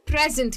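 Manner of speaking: "प्रेजेंट" with a strong PREZ, softened ENT; front-stressed noun "प्रेजेंट"; stress on first syllable. Shown as a demonstration. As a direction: let the end of "प्रेजेंट" fade. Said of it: "एंड जो है वो थोड़ा धीरे".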